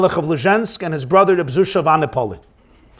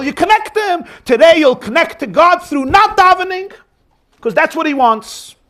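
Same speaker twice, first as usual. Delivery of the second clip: higher, rising with eager conviction; high, eager and persuasive; excited rebuttal; 6 semitones higher than usual. Retold or imitated. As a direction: lift him out of his sorrow with joy. Zusha cheerfully rebuts his brother.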